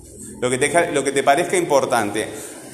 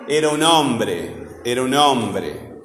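drawn-out, strong first syllable of "hombre"; stress on "hombre"; 3 semitones lower, slower than usual. Shown as a demonstration. Teacher making a student hear the sound, stressed "hombre". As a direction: say it slowly, leaning on the OM in "hombre". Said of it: "Escucha el sonido".

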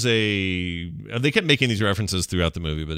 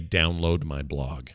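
mocking quote; 5 semitones lower, 4 dB quieter, slower than usual. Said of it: "He knows not to say".

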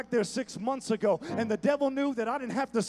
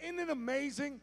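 softer, quieter sermon; 6 dB quieter than usual. Acted. Drops back down softly.

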